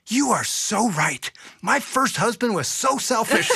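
high, gushing vindication; emphatic agreement. Retold or imitated. Wife blaming her first husband, high and emphatic.

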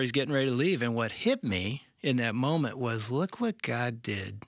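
ordinary delivery

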